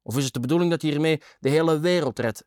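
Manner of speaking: high, indignant challenge; calling out. A narrator's reading. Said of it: "riep ik toen".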